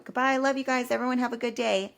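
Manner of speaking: pointedly cheery goodbye. Shown as a demonstration. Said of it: "Just said it like that".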